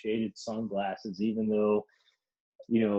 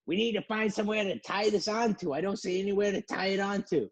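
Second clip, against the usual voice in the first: much higher mock voice of the lady; fussy lady voice; 9 semitones higher than usual. Lady searching for a tie point, high fussy mock voice. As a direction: fret squeakily about the rope. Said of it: "And the lady's like".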